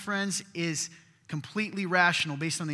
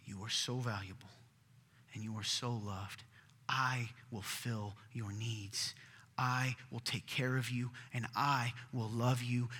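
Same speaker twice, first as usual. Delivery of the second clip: God speaking tenderly; 3 semitones lower than usual. Acted. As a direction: speak as a loving father comforting his child. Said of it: "What God is saying is he says".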